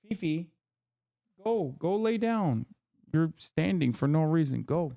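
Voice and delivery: owner ordering the dog back to bed; telling the dog off. Real, not acted. Talking to his dog.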